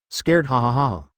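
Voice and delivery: booming evil laugh; loud villain laugh. A narrator's reading. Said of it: "laughed loudly".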